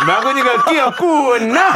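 Gungye impression. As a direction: lean into it, laughing. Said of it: "이렇게 하죠".

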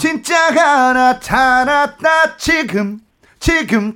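지금 sung loud and high, held steady; hold 지금 firmly. Shown as a demonstration. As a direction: grab and hold the word 지금. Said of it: "딱 잡아주고".

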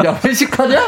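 high-pitched incredulous jab, half laughing; playful "what is this?" outburst; mock indignation. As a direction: toss it out as a laughing mock reproach. Mock scolding quote, amid laughter.

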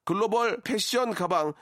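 brisk ad read of prize list; sponsor list read. Acted. (라디오 협찬 광고 낭독)

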